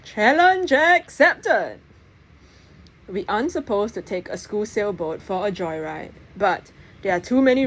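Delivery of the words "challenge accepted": high, slow, drawn-out gleeful acceptance; eager challenge. Acted. Press accepting the dare, gleeful and drawn out. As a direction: savour the dare with a grin.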